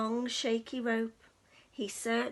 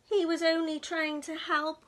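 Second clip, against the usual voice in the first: weeping; 3 semitones higher, 4 dB louder than usual. Acted. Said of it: "wept the cat".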